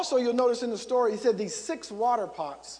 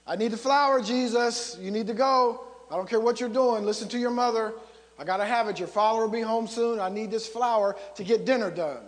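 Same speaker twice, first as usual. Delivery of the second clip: mildly exasperated, raised-voice nagging; insistent mother; 3 dB louder than usual. Acted. Mother pressing her son to fetch flour, lightly acted insistence. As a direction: press the child firmly, a little louder.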